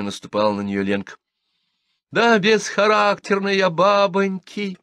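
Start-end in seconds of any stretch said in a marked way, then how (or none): 2.1-4.8 high, loud, slow wail of despair; cornered girl cries out before bursting into tears; desperate declaration. A narrator's reading. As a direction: blurt it out in desperate resolve. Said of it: "с отчаянной решимостью заявила Милка".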